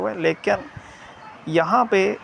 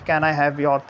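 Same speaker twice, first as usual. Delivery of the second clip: "Can I have your" kept on one level pitch; no lift or drop through "Can I have your"; stationary tone; much slower than usual. Shown as a demonstration. Teacher showing students how far it stays level, "Can I have your" unchanging. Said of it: "ये आपकी स्टेशनरी tone है".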